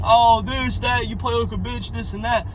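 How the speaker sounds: high-pitched whiny gamer griping; imitating a teammate who blames everyone; mock complaining. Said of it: "too busy complaining and saying".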